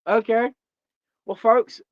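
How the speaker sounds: loud, bright opener to the crowd; loud show-host greeting to the folks; host call-out. Real, not acted. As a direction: grab the audience's attention. Switching into host mode.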